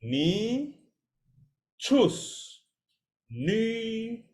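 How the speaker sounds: ni, then high rounded choose, then ni with lips kept rounded; three-step demo. Shown as a demonstration. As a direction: model it slowly for students. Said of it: "I give you an example".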